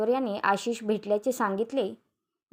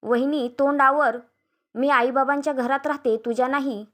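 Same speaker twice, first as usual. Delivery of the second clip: raised, indignant retort; रागाने दटावणे; 3 semitones higher, 4 dB louder than usual. Acted. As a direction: put your sister-in-law in her place. नणंद वहिनीला दटावते. (रागाने दटावत)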